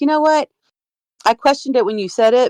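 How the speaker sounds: ordinary talk, nothing marked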